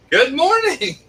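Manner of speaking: high, slow laughing good morning; sing-song greeting. Acted. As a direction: stretch it out high and playful.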